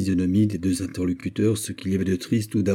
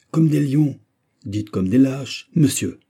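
loud scornful outburst, the last words slowed; abbé's furious retort; 5 semitones higher, 5 dB louder, slower than usual. A narrator's reading. The abbé berates the cowardly messenger, loud and scornful. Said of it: "«Misérable!» dit l'abbé".

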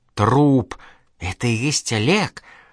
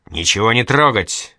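barking order; 4 dB louder than usual. Acted. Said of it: "рявкнул следователь".

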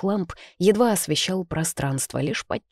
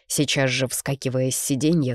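plain reading voice

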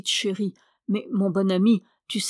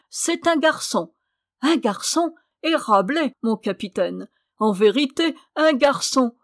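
put-on higher, delighted cry of a boy; a doctor's happy news of a son, voice raised; joyful announcement; 3 semitones higher than usual. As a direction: announce it with glee.

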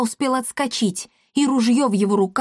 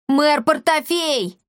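higher, slow call with a hint of a yell; вопль; 7 semitones higher, slower than usual. A narrator's reading. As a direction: call out for the mayor on the doorstep. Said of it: "завопил Пима". (громко зовёт мэра, почти вопит)

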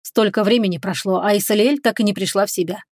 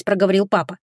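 usual speaking voice

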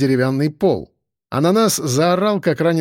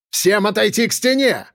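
raised, commanding cry; shouted order; 6 semitones higher than usual. A narrator's reading. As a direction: order the whole room to obey. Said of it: "закричал Ананин".

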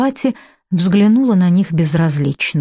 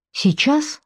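startled; 8 semitones higher, 3 dB quieter than usual. Acted. Frightened woman asks, confused.

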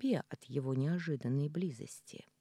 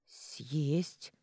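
unsure repeat. Acted. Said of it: "уже не особо уверенно повторила".

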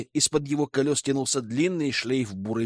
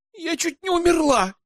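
much higher shocked exclamation; exclaiming. A narrator's reading. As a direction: cry it out, still shaken. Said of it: "воскликнула блондинка".

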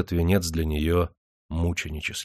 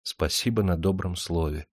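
soft, barely heard murmur; barely audible; 5 dB quieter than usual. Acted. Katyusha answers Perstень softly, barely audible. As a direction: say it almost under your breath. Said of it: "чуть слышно проговорила Катюша".

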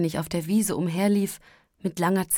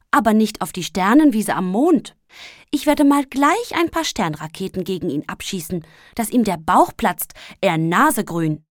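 angry; 2 semitones higher, 7 dB louder than usual. A narrator's reading. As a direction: rant at the beetle. Angry Sandmann scolds beetle.

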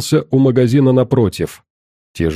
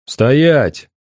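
shouting over wind; 2 semitones higher than usual. Acted. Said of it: "перекрикивая ветер, выкрикнул я".

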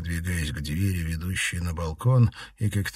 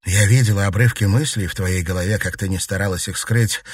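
usual speaking voice

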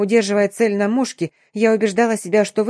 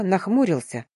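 plain reading voice

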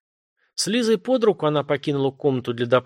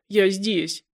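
through sobs; 7 semitones higher than usual. A narrator's reading. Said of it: "сквозь рыдания выговорила женщина".

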